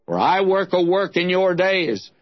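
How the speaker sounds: declaimed Bible passage, slightly lifted and sustained; solemn scripture reading. Acted. Preacher reads Paul's sermon from Acts, in declaimed scripture style. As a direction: proclaim the verses with measured phrasing.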